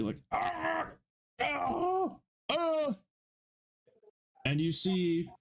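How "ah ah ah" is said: high, pained cries of ah, ah, ah; unconscious screaming. Acted. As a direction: scream out in pain, barely conscious. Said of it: "he starts screaming unconsciously".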